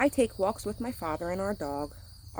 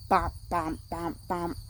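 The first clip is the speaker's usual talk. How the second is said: basketball bounce; slower than usual. A narrator's reading. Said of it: "dribbling his basketball".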